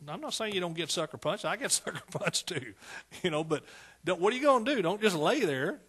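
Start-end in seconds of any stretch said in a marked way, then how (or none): none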